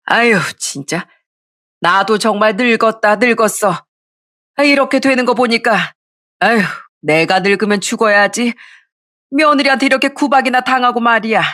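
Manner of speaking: lightly voiced lamenting elder; self-pitying mother-in-law. Mother-in-law lamenting mistreatment by daughter-in-law, self-pitying.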